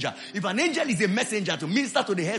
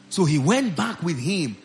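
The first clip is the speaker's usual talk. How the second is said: slow, measured reading aloud, settling lower; scripture reading; 3 semitones lower, slower than usual. Real, not acted. Preacher reading the prophet's story to church, slow and measured. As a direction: read the verse out slowly, phrase by phrase.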